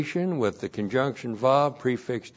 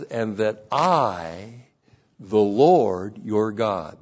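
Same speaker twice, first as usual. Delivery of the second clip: slow, deliberate, lower voice; slow literal reading; 4 semitones lower, slower than usual. Acted. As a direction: lay each word down slowly. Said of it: "It literally says".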